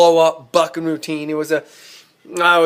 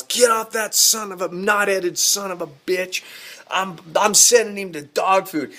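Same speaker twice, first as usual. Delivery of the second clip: restrained retelling of a yell; retold angry yell; 4 semitones higher than usual. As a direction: imitate dad cussing from horseback. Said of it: "Dad comes up and he yells".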